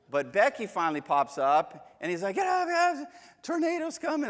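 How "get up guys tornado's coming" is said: high, loud alarmed cry; panicked wake-up call. Retold or imitated. Wife wakes them, tornado warning.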